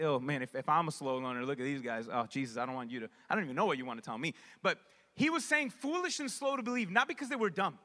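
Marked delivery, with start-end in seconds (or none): 0.0-4.3 much lower, sheepish confession; lower, bashful self-mockery. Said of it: "and be like".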